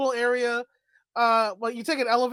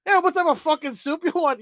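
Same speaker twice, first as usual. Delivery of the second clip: put-on Samurai Jack Scotsman style Scottish accent, higher; 6 semitones higher than usual. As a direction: growl the order like a cartoon Scotsman, pitched up. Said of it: "The Scotsman from Samurai Jack".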